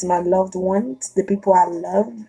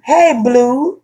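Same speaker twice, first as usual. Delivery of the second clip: imitating catcalls; 4 semitones higher, 3 dB louder, much slower than usual. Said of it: "If a guy say".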